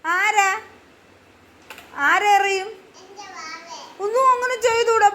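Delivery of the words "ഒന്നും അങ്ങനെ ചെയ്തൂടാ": higher-pitched gentle telling-off; gentle admonishing. Real, not acted. Adult warning child not to hurt baby, gentle admonishing.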